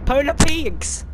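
high, loud, drawn-out cry; shocked outcry. Real, not acted. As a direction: shout in disbelief as it's hit. Seeing Polar Peak hit.

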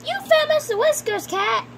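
high, play-acted delight; excited relief. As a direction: exclaim at a happy find. Owner gets cat back.

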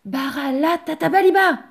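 high, loud magic command; crying out. A narrator's reading. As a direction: call out the spell at full voice. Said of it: "le pauvre Yannick s'écria".

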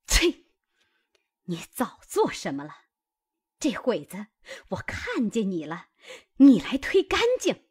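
a sharp spit of contempt, then an accusing scold; wife catching her husband's maid, scornful scolding; scornful spitting rebuke. Acted. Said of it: "凤姐啐道".

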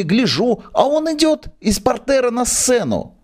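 put-on high, fretful old man begging; pleading old manager. Old theatre manager begs the actress to hide him. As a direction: beg her not to raise a fuss.

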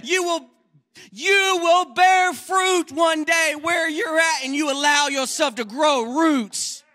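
high, loud pulpit preaching; preacher's full-force exhortation; fiery preaching. Acted. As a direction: preach it hard to the congregation.

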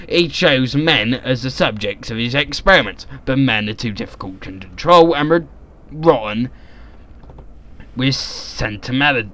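measured, theatrical narration; dramatic journal reading. Acted. Reading the notes on the crate's body, in theatrical narration. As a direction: read it like a formal journal entry. Reads journal aloud in character.

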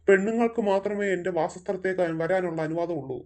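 low, menacing demon voice with an evil laugh. Acted. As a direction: loom over them like a forest spirit. Demon warns the boy away.

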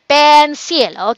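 "pencil" said in two distinct beats, pen-cil; syllable by syllable. Shown as a demonstration. Teacher recapping two syllables for children, "pencil" split evenly. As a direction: stretch pen, then add cil in "pencil". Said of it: "two syllables".

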